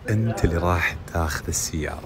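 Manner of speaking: shouting. Real, not acted. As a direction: call it out for everyone. Secret news, then said aloud.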